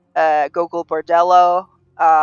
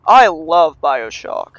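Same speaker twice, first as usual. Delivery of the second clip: gushing; 6 dB louder, slower than usual. Retold or imitated. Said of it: "people that I know are like".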